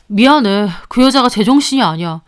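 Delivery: a lightly voiced husband, sheepish; apologetic husband. Husband apologizes to the mistress, sheepish. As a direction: mutter an excuse about his wife.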